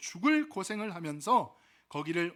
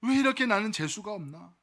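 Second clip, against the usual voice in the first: mock bitter lament, loud bursts that fall away; acted lament; 2 semitones higher, 5 dB louder than usual.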